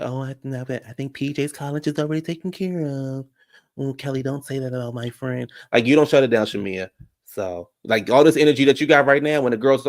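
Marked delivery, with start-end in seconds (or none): 0.0-5.5 laughing it off. Retold or imitated. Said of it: "You laugh and you're like".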